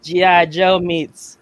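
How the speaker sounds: hammed-up old-time Mid-Atlantic accent. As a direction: play a pleased fella in mock Mid-Atlantic accent. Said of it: "a Mid-Atlantic accent that you're doing".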